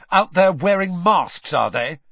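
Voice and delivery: loud, high accusing question; temper rising. A narrator's reading. Harry accuses Malfoy's parents, temper rising. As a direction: accuse him as anger builds. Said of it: "his temper rising".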